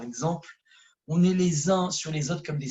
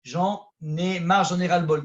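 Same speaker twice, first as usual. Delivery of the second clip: a worshipper groaning his frustration to God; venting frustration; 4 dB louder than usual. Pretend. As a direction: let the fed-up feeling spill out. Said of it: "dis-le à Hachem".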